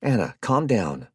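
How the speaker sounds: sharp and loud; snapped. Acted. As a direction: snap at her to stop. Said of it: "Jared snapped".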